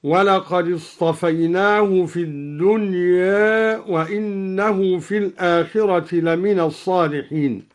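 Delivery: الدنيا ending halfway between a and e, "dunye"; taqlil in الدنيا. Shown as a demonstration. Teacher reciting al-Duri's reading, الدنيا with a slightly tilted alif. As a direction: tilt the last alif of الدنيا slightly toward e. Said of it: "وقلل أيضًا ألف الدنيا".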